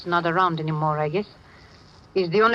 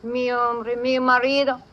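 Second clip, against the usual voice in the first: urgent bluff; 6 semitones higher than usual. Acted. Midnight bluffs the Spanish police.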